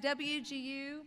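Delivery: slow, deliberate letters for the crowd to catch; slow spelling out. Real, not acted. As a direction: spell the hashtag out slowly so they can type it. Spelling out the event hashtag.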